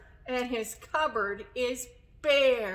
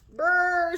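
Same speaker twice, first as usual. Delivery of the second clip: higher, louder shivering brr; cold shiver brr; 6 semitones higher, 7 dB louder than usual. Acted. Badger shivers loudly coming in from cold. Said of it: "says Badger".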